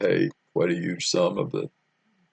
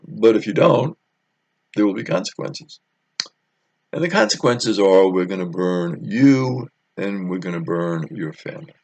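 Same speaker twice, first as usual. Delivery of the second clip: louder, menacing warning; mock threat; 5 dB louder than usual. Guests threatening Samson's wife, menacing and louder.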